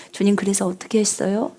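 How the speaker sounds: soft, casual talk with God; quiet chatty prayer. Shown as a demonstration. Pastor praying alone, talking softly and casually. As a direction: chat to the Lord softly like a friend. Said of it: "조용히 기도할 때는 이렇게 기도하지 않아요".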